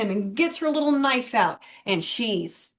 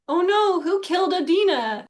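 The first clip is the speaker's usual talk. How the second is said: higher, theatrical alarm; mock shocked gasp; 8 semitones higher than usual. Friend retelling a plot twist, in mock shock. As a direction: play up the fake suspense. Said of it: "you wonder".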